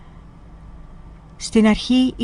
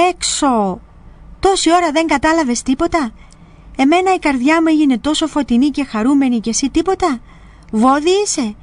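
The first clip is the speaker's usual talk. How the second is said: scolding elder; 6 semitones higher than usual. Retold or imitated. Elder scolds novice for failing prayer.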